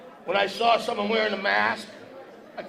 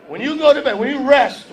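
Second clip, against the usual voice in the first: rising loud push; 5 semitones higher, 10 dB louder than usual. Shown as a demonstration. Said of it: "When you go to bed tonight".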